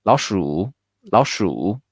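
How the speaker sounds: 老鼠 run together quickly. Shown as a demonstration. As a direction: say 老鼠 fast, as in real talk. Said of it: "we do it quick".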